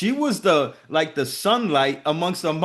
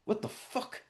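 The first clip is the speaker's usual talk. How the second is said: breathless whispered what the fuck; 7 semitones higher, 13 dB quieter than usual. Retold or imitated. Coach retelling his own frustration, whispered disbelief. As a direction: hush it out in disbelief. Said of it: "sometimes I'd be like".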